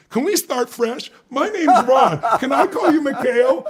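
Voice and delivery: Reagan impression. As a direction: play the grinning President turning back with a fresh start. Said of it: "with a big smile on his face and said".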